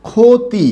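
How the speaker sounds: emphatic teacher demo of ক্ষতি; kh sound demo. Shown as a demonstration. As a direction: punch out ক্ষতি as khoti. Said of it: "পরবর্তী বর্ণে হ্রস্ব ইকার থাকার কারণে খ হবে".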